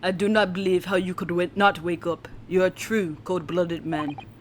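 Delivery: poor fake Russian accent. A channel host attempts to voice-act a character in a bad Russian accent. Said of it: "my Russian accent is totally going to be a bust".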